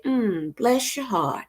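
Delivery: soft, dropped-down "bless your heart" with a knowing hum first; demo bless your heart. Shown as a demonstration. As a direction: say it quietly and let it settle the matter. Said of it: "all you have to do is say".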